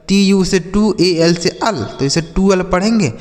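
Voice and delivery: टूअल built from टू and अल, opening on a hard T; wrong pronunciation. Shown as a demonstration. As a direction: sound out टू, then अल, as टूअल. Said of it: "यह गलत उच्चारण है".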